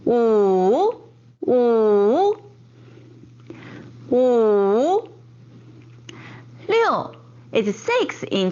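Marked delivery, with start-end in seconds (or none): 0.0-5.1 五 Mandarin third tone, dip and rise. Shown as a demonstration. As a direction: let 五 dip and come back up. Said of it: "wu is the third tone".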